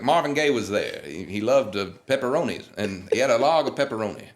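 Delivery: lightly voiced rambling legend; name-drop stars like a relaxed old legend; impression of a famous singer. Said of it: "these voice impressions are spot on".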